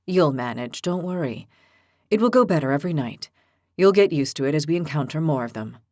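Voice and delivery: low, gentle comfort; calm her worries; reassuring. Acted. Evo reassures Lily.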